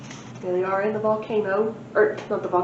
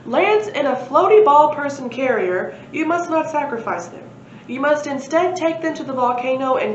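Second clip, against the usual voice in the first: prophetic voice; 4 semitones higher, 3 dB louder than usual. Acted. Prophecy voice from the air.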